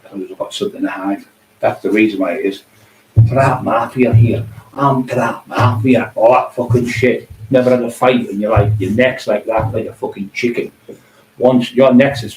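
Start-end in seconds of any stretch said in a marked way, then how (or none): 3.3-6.1 slow sneering parody of a rival; mocking catchphrase. Mocking a rival's tough-guy catchphrase, slow and sneering. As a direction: drag it out to ridicule him.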